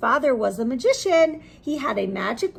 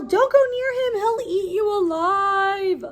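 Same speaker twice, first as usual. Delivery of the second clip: high, loud frantic warning; yelled warning; 9 semitones higher, 4 dB louder than usual. Acted. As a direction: shout to stop them going near. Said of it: "People yell".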